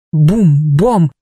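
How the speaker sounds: booming thuds. A narrator's reading. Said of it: "Они мчались во тьме".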